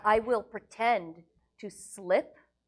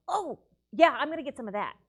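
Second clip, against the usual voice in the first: pirate voice; 5 semitones higher, 6 dB louder than usual. Acted. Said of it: "I'm no longer talking like a pirate".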